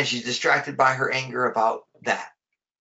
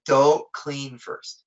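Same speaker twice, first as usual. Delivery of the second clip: calm advice; 2 semitones lower than usual. Retold or imitated. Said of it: "he said".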